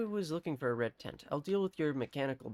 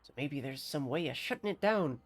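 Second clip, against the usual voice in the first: put-on grateful farmer in a country accent; bad rustic accent. Farmer offers a stranger a job, bad rustic accent. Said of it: "bear witness to my bad accent".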